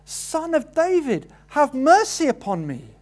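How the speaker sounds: a high, pleading cry for mercy, not yet at full force; beggar crying out. Acted. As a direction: call out to Jesus for mercy, hold something back. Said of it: "he shouts out".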